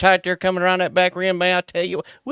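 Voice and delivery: 1 NASCAR commentator. Acted. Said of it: "He wants the nascar act".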